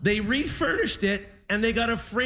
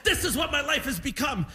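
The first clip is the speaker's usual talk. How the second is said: imitating a put-upon dad, pitched higher; a hint of indignant, higher-voiced grumbling; mock grumpy; 4 semitones higher than usual. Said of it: "he was all mad and grumpy".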